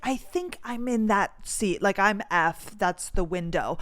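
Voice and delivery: mild, tactful correction; imitated courteous hedging; trying to be polite. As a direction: point it out politely, without pushing. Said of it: "I was trying to be polite".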